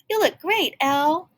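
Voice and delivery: high, loud cheer; excited praise; excited compliment. Acted. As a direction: gush over her outfit. Bubble compliment.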